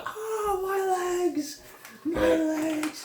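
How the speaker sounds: high wailing cry over lost legs; screaming in pain. Acted. Legless bandit screams for his legs, high wail. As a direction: wail it, half laughing through the pain. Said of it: "the guy's just screaming now".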